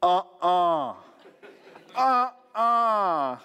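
drawn-out imitation of astonished refusal to believe; imitated disbelief. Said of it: "she's like".

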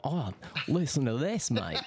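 a loud, hammed-up Australian accent on mate; mock Aussie voice. Hearing his own voice in headphones, loud mock Australian accent. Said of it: "and you're like".

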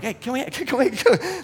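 put-on high, excited child voice; imitated repeated little-kid begging; pestering kids. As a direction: nag like kids tugging at Dad. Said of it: "tug on my pant leg".

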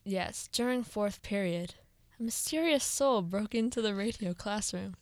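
playful suspenseful storytelling; scary storyteller voice. Pretend. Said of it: "Do you like my sta-, scary voice?".

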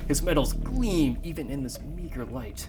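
dramatic screenplay narration; story narration. Acted. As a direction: set the scene like a movie trailer.

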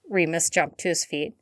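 plain reading voice

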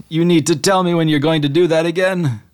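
a genie scolding, worn out. Acted. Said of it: "and he just says".

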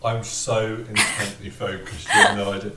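high and spaced out; stoner. Real, not acted. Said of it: "I'm so high right now".

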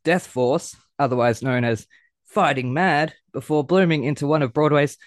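breathless fast intro; racing until the breath runs out. Real, not acted. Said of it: "I need to catch my breath".

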